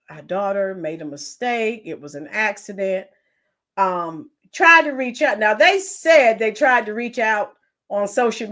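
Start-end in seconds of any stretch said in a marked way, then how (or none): 0.1-3.1 lightly voiced sincere parents. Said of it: "at least say".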